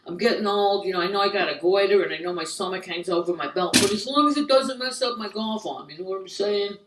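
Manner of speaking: self-satisfied aging guy. Acted. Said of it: "guys don't ki-, get old. They're like".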